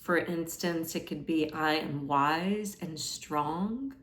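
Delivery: calm meditation guide, leaving space after each phrase; guided meditation. Acted. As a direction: offer each affirmation gently, unhurried. Guides a meditation with sample affirmations.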